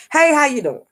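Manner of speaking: bright, high, sing-song hello from a former worker; cheery greeting. Retold or imitated. Former worker spots him in the store, high, cheery hello. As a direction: greet him like an old friend, all lit up.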